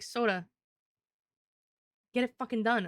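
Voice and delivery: loud stern order; mock yell. Chat telling Soda off, loud stern yell. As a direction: bark the order like a fed-up boss. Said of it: "Somebody be like".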